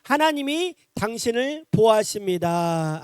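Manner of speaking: 하나님이 당신을 보호하십니다 drawn out slowly, ending stretched; slow it down, let the last syllable hang; a slow call-and-response blessing. Shown as a demonstration. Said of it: "시작".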